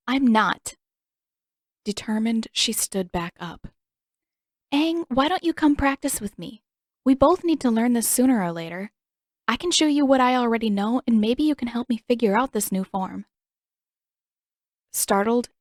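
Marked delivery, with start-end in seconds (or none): 0.1-0.8 defiant. Acted. Katara defiant reply. 4.7-13.3 eager invitation. Acted. Katara eagerly inviting Aang.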